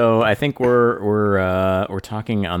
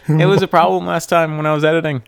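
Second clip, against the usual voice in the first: exaggerated cartoon intonation; 9 semitones higher, 7 dB louder, faster than usual. Keeps silly voice over music.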